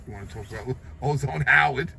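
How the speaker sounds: rueful laugh breaking into the question; amused, ironic laugh mid-sentence. Real, not acted. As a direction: chuckle through the punchline. Laughs at his own irony.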